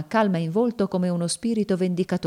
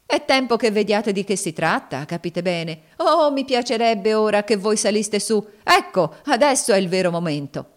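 higher, louder, insistent taunting; goading slave woman, exultant; 4 semitones higher, 5 dB louder than usual. Acted. Slave woman daring her master to go upstairs, exultant. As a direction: goad him on with mounting force. Cassie goads Legree upstairs.

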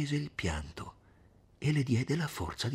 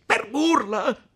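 slow, loud, incredulous rising question; shouted echo; 12 semitones higher, 10 dB louder, much slower than usual. Acted. Renzo glaring at Agnese, outraged and disbelieving. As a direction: throw her word back at her, outraged. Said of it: "gridò Renzo".

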